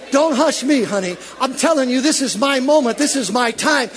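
defiant declaration. Acted. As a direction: claim your moment out loud.

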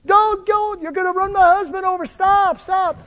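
high, loud panicked screaming; wife screaming at the driver to stop, loud and high; retold scream. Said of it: "She screams".

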